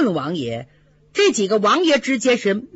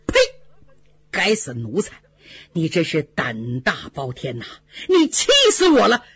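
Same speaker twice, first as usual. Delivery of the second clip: furious scolding; 5 semitones lower than usual. Acted. 贾政痛骂宝玉，怒不可遏. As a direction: spit out the scolding at the son.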